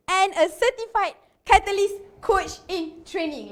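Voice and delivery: breathless after a long intro; gasping through the long bio; out of breath. Real, not acted. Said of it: "Let me catch my breath".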